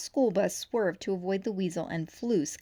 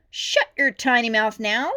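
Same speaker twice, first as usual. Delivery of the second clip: louder stern command; stern order; 3 semitones higher, 9 dB louder than usual. A narrator's reading. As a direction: cut her off flat. Angry chief silencing rookie.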